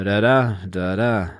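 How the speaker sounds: unstressed first "da", stressed second "da"; iamb rhythm demo. Shown as a demonstration. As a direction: beat out "da-da" as weak-then-strong pairs. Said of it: "a stressed syllable".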